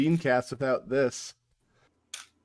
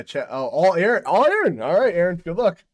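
excited taunt; 4 semitones higher, 6 dB louder than usual. Real, not acted. Taunting friend in a game.

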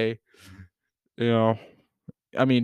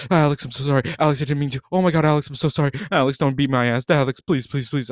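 mock freaking out; faster than usual. Storyteller imitates drunk friend begging forgiveness, mock freak-out. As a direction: panicky gasps, then pleading apologies. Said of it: "freaking the fuck out".

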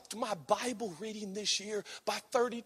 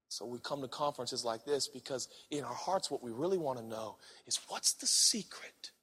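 hushed sermon voice; 8 semitones lower, 9 dB quieter than usual. Acted. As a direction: drop to a low, soft, intimate preaching tone. Preacher drops to hushed voice.

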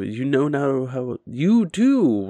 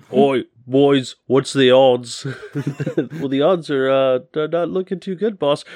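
put-on loud, rough Cockney-style orc boss and his boy; orc accent; 4 dB louder than usual. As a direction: bark it out like a rowdy ork mob. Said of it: "you changed accents halfway through".

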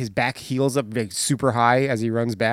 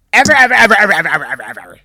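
repeating ever louder and higher; building repetition; 4 semitones higher, 9 dB louder, much faster than usual. Retold or imitated. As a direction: pile on the evers, then laugh.

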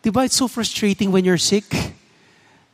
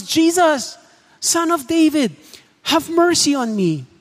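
shouting at the top of lungs; 7 semitones higher than usual. Retold or imitated. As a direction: yell it across the crowd. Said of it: "he shouted at the top of his lungs".

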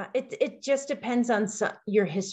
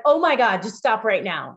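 put-on exasperated teen, pitched up; rolling eyes; 5 dB louder than usual. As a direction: groan it like a teen. Daughter voiced, exasperated.

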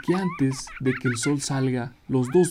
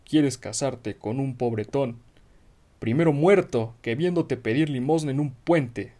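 angry father; 5 dB louder than usual. Acted. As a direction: scold her like an outraged father. Father scolds daughter's choice.

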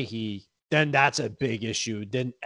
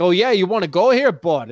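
higher, louder taunting challenge; hockey chirp; 5 semitones higher, 6 dB louder than usual. Retold or imitated. Hockey player taunting an opponent, loud mock challenge. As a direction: egg the other guy on. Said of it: "these N H L guys are like".

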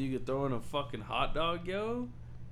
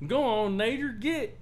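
mock shout at tornado; 10 semitones higher, slower than usual. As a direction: wave it off like a stray dog. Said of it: "I'm just out there like".

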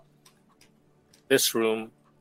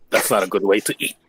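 lower-pitched, measured in-character line; in-character remark; 4 semitones lower than usual. Acted. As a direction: say it low and understated. In-character quip, first take.

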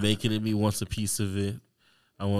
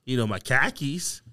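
put-on Boston accent; broad Boston vowels, as a demo; 3 semitones higher than usual. Shown as a demonstration. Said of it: "I can do Boston".

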